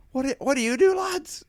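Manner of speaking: high, loud comic impression; Paul Smith. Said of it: "like, an impression of, um, Paul Smith".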